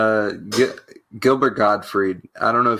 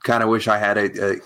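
ordinary talk, nothing marked

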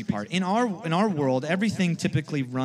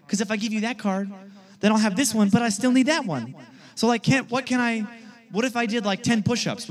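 higher, louder, begging bargain; pleading kid; 5 semitones higher, 3 dB louder than usual. Retold or imitated. Kid begs his friend Clifton for the trade, pleading. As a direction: plead with a best friend for the card.

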